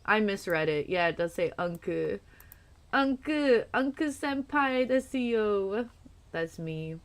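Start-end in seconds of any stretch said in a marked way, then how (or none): 2.9-5.9 cutesy anime voice. Pretend. Repeats anime greeting.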